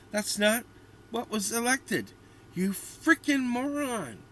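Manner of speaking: loud high yell of disbelief; angry outburst. Real, not acted. Yelling at a commenter online, loud and exasperated. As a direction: shout at the screen, fed up.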